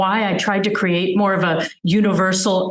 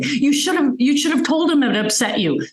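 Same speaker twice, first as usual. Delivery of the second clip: higher inner voice, scolding herself; self-reproach; 6 semitones higher than usual. Retold or imitated. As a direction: tell yourself off for staying silent.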